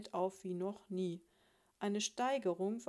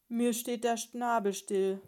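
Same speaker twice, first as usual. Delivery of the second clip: loud, higher exasperated shout; 4 semitones higher, 11 dB louder than usual. A narrator's reading. Husband baffled by his wife's logic, shouting. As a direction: cry out, utterly flabbergasted. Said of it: "schrie er".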